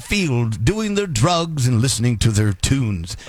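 slow, measured vintage anchor read; old news announcer. Retold or imitated. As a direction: read it like a sixties newsman. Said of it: "you must read like an announcer".

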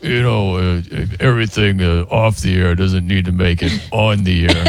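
mild Coop voice breaking into a laugh; lightly voiced co-host, laughing through it; a hint of Coop, cracking up mid-line; Coop impression, laughing. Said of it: "let me do my Coop impression".

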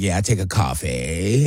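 low, soft mock fry; vocal fry. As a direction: imitate a coffee-shop customer creaking through the order. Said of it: "also the vocal fry".

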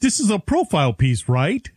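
high, cartoonish mock voice; lightly voiced cartoon snowman; Frosty the Snowman. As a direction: mimic him as an innocent snowman. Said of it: "he sounds like Frosty the Snowman".

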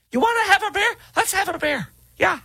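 very high, goofy buddy voice; mocking impression. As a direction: play a dopey pal offering beer. Mimicking the candidate chummily.

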